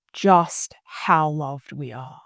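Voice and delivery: slow, breathy whisper of awe; hushed whisper. Real, not acted. Guest recalling the love she felt when she crossed over, slow whisper. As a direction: whisper it as a sacred secret.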